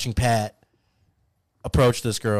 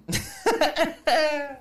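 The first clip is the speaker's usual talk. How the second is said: high laugh. Real, not acted. Bursts out laughing.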